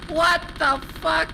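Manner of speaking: slow, high, loud incredulous outburst; loud disbelief. Real, not acted. Streamer reacting to insane game overacting, loudly incredulous. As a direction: punch out each word, appalled.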